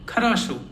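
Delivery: "Kharasho" with a full final O; stress on last O. Shown as a demonstration. Teacher repeating the word for good, last O stressed in "Kharasho". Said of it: "only the last O is stressed".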